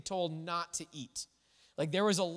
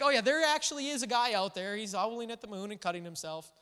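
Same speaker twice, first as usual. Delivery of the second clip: alarmed admission; 3 semitones higher, faster than usual. Pretend. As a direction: blurt it out like a parent caught off guard. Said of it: "think about this moment of".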